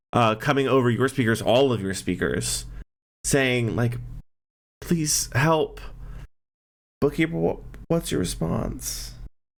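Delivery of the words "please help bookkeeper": put-on high voice of a small young boy. Speaker voices a child heard over the speakers, young boy's voice. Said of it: "the young boy's voice".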